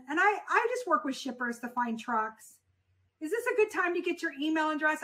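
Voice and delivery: bright, rising friendly greeting; open and friendly. Shown as a demonstration. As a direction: greet him like an old friend. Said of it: "Let me use my voice".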